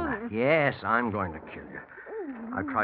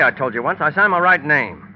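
angry; 3 semitones higher, 7 dB louder than usual. Acted. Bill snaps at Mona's doubt.

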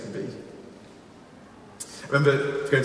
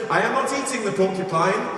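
high-pitched, hammed-up excuse; mock protesting; 5 semitones higher than usual. Hunter excusing himself to his accuser, mock protesting. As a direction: plead a technicality, pitched up.

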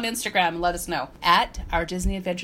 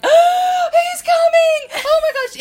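high, loud squeal of a thrilled crowd; a crowd in line sees the king coming, squealing; excited crowd squeal; 9 dB louder, slower than usual. Retold or imitated. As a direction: shriek like fans spotting their king.

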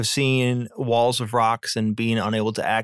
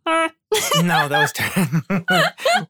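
bike horn honk; 6 semitones higher, 3 dB louder, much slower than usual. Pretend. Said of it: "you sound more like a bike horn".

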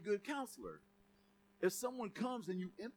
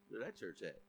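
put-on impressed kid; 11 semitones lower, 10 dB quieter than usual. Little kid admiring college girl.

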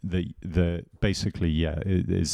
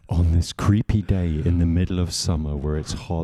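spooky narrator. Acted. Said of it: "spooky podcast intro".

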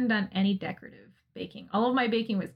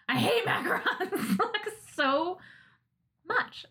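laughing mock rant; 9 semitones higher, slower than usual. Real, not acted. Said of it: "this is turning into a rant".

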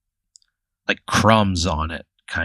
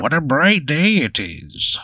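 slow Bigfoot voice, swooping higher; 6 semitones higher than usual. Acted. Game master repeats Bigfoot's greeting for the player, slow swooping creature voice. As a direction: draw each word out in a high, swooping creature voice. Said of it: "That's how he talks".

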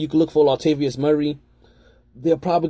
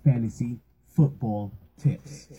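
announcer intro; 4 semitones lower, slower than usual. Acted. Show title intro, slow deep voice.

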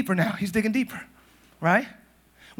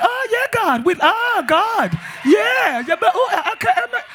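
high, gasping, broken praying; exaggerated high fragmented prayer; mock deep prayer; 10 semitones higher than usual. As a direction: stammer as if overcome by God, hammed up. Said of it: "Then they real deep".

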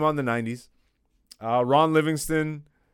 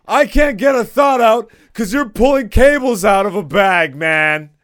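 loud, higher mock white-guy scolding; a loud, high, proper white-guy rebuke; 7 semitones higher, 10 dB louder than usual. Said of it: "You made me get my white voice on".

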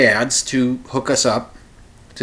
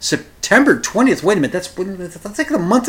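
incredulous; 5 semitones higher than usual. Retold or imitated. Indignant at long wait.

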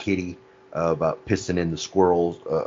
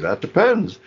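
imitating Bubbles; 11 semitones higher, 4 dB louder, slower than usual. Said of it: "Bubbles is like".

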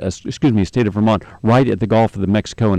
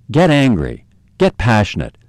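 louder insistence. Real, not acted. Ranting host urging baby boomers to get angry, louder. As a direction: repeat it louder and harder. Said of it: "And yes, get angry".

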